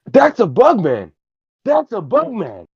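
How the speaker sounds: very high, slow puppet voice, amazed; astonished puppet character. Acted. Puppet astonished at a bug man smoking, high-pitched amazement. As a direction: squeal in drawn-out wonder as a little puppet.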